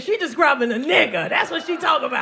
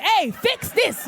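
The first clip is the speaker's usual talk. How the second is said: dashboard voice; 6 semitones higher, much slower than usual. Retold or imitated. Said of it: "was blinking like".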